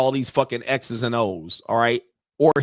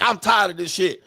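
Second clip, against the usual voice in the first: mildly irritated, higher-pitched retelling; pissed-off judge; 6 semitones higher than usual. Retold or imitated. Storyteller quoting the pissed judge, irritated. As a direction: imitate a judge who has had enough. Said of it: "'cause he was pissed".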